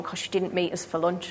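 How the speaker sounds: unvoiced whisper of a prayer; hushed whispered blessing; whispered quote. Retold prayer quoted softly.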